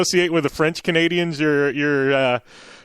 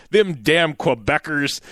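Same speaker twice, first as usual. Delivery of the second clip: slow grumbling roommate voice; imitating roommate; 2 semitones lower, slower than usual. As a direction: drag out the gripe like a fed-up friend. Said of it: "he was like".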